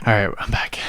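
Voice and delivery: winded after hurrying back; out of breath. Real, not acted. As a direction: talk while catching your breath. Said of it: "Why you out of breath from pissing?".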